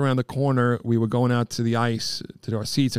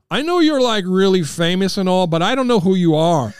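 put-on higher, louder, naive teen voice; blunt teen; 6 semitones higher, 5 dB louder than usual. Nephew telling a famous actor, blunt higher teen voice. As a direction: say it like an innocent sixteen-year-old.

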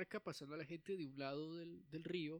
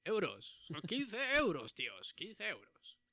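louder, slow Spanish ferryman calling fares; Spanish boatman; 5 semitones higher, 5 dB louder, slower than usual. Acted. The boatman announcing fares to passengers, loud and slow. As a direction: hawk the fare like a pushy boatman. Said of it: "Y le dice".

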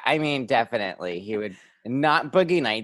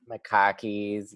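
slow, softer Boston "khakis"; Boston accent; 5 dB quieter, slower than usual. Retold or imitated. Niece confirms her uncle's word, Boston accent. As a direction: draw out "khakis" with a broad Boston a. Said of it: "make him say things like".

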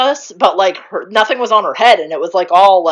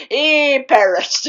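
laughing; 7 semitones higher, much slower than usual. Real, not acted. Laughing at death scene.

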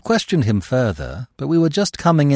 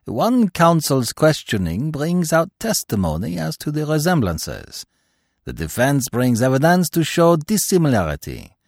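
a hint of a fussy Belgian detective, lecturing; Poirot smugly schooling his friend on method; Poirot, lightly voiced. Poirot lecturing Hastings, a lightly voiced foreign detective.

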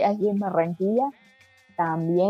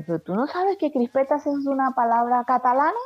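an incredulous retold question, lifted; retold surprised question; 4 semitones higher than usual. Friend asks her about a Catalan word, retold incredulous question. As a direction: quote him asking, pitch climbing to the end. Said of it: "Y me dice".

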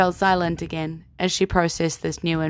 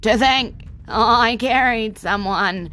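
slow, beaming horse voice; delighted horse; 3 semitones higher, 4 dB louder, slower than usual. Acted. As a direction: savor the delight, drawn out.

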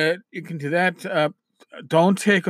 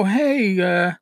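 higher-pitched, casual player's query; curious player asking; 5 semitones higher than usual. Acted. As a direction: ask around for someone you half remember. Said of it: "and they'll go".

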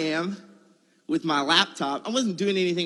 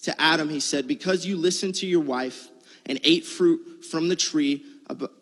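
scripture reading. Acted. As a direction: read the verses out with weight. Reads scripture aloud.

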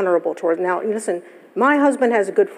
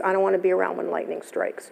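quiet, grave warning, not joking; serious and quiet; 7 dB quieter than usual. Retold or imitated. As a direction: drop the voice, say it with a straight face. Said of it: "Goes, seriously, with a serious face".

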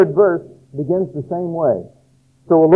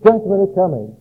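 higher, ringing prophetic proclamation; modern prophet proclaiming; 5 semitones higher than usual. Pretend. A prophet today warning the churches, higher and ringing. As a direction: thunder it out like an old prophet. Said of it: "we would put it somewhat like this".

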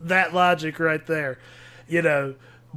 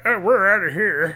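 imagined departing followers; 4 semitones higher, 5 dB louder than usual. Acted. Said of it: "they're like".

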